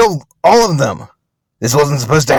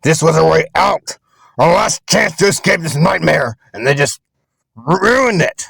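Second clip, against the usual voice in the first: furious yelling, pitched way up; anguished rage; 2 semitones higher than usual. Acted. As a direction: cry out at a ruined last hope. Rages at losing the escape.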